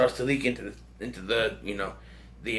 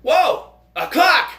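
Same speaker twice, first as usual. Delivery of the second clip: much higher and louder, dumbly amazed; goofy amazement; 13 semitones higher, 8 dB louder, much slower than usual. Retold or imitated. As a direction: gasp at the clock like it's a miracle. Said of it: "he looks at it and he goes".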